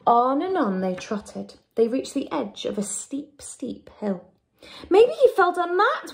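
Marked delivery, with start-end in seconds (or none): 4.9-6.1 high wailing cat. A narrator's reading. Cat fearing the duck fell off the hill, wailing. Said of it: "wailed the cat".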